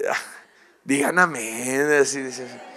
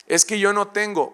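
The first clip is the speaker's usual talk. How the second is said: higher, pleading excuse-maker; whiny excuse; 6 semitones higher than usual. Acted. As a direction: beg off like a timid believer. Believer makes excuses to God.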